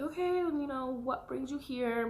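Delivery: imitated therapist. Therapist greets a silent new client, lightly imitated. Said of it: "And she's like".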